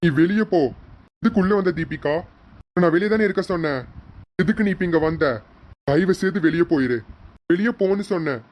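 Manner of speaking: insistent, mildly angry rebuke; annoyed dismissal. Acted. Orders wife out of the room.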